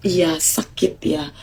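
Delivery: low soothing tone. Shown as a demonstration. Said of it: "Nada rendah".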